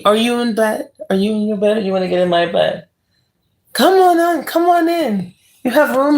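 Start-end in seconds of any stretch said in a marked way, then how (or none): 3.7-6.2 much higher, giggling invitation; playful giggly invite. Real, not acted. Inviting a chat viewer into bed, high and giggly. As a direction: tease them into bed with a laugh.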